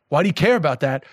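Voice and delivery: blunt question in a New York accent. Shown as a demonstration. Guest showing how their question gets misheard as aggressive, blunt. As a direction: ask it matter-of-factly, so it could pass for a challenge. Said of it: "it's also kind of an aggressive accent".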